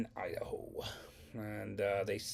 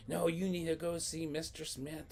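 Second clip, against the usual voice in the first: mad teacher; 7 semitones higher than usual. Retold or imitated. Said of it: "She was so mad".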